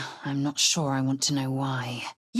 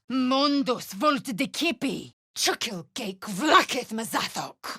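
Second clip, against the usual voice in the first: spellcasting; 7 semitones higher than usual. Acted. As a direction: chant the spell with force. Spell incantation cast.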